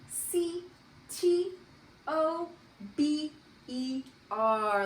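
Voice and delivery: C, T, O, B E R named one letter at a time, with a pause after each; spelling aloud. Shown as a demonstration. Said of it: "begins with a capital O".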